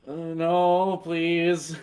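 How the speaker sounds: pleading. Retold or imitated. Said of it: "he's just like".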